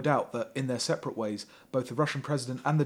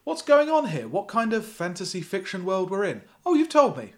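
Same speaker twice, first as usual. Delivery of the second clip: mock exasperation; 7 semitones higher, 4 dB louder than usual. Mocking the author's writing.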